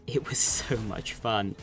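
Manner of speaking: whispered through a giggle; breathy laugh mid-line. Real, not acted.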